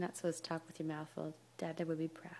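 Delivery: wry whispered aside. Real, not acted. Mother whispering to her baby, wry whisper. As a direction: hush it like a secret.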